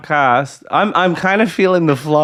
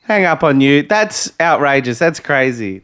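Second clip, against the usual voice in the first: political pundit. Pretend. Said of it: "That's my impression of a political pundit".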